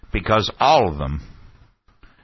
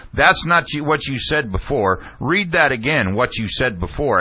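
raised retold shout, easing off; Ashcroft shouting; 5 semitones higher than usual. Official demanding a questioner reread it, mild imitated shouting. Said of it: "and he was shouting".

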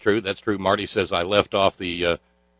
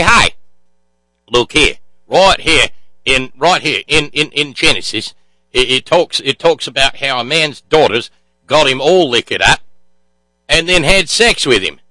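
higher-pitched, hammed-up Australian accent; cheesy Australian accent; 3 semitones higher, 4 dB louder than usual. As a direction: do a cheesy Aussie teacher explaining scripture. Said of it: "my cheesy Australian accent".

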